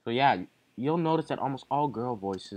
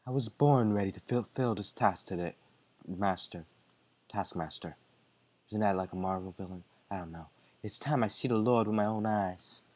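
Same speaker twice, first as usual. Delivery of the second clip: low, dutiful servant tone; lower servant voice; 5 semitones lower, faster than usual. Acted. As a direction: answer like a devoted henchwoman. Maid character lines.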